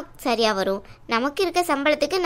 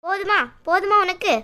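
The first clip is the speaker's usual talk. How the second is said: higher, accusing repeated challenge; a bitter, higher-pitched jab at the sister who went behind her back; angry outburst; 5 semitones higher than usual. Acted. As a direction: throw it back at your sister with a raised pitch. Sister confronts after mother arrives.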